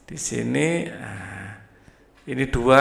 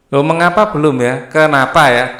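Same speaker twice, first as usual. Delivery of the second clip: surprised; 2 semitones higher, 7 dB louder than usual. Real, not acted. Teacher notices missing word.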